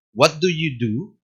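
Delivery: What do you do? said slowly with the pitch rising on the final do; slow question lifting at the end; rise at the end. Shown as a demonstration. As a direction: rise only on the last "do". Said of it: "recién al final".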